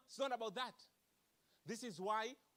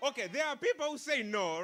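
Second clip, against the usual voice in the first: emphatic point; 5 semitones higher, 9 dB louder than usual. Real, not acted.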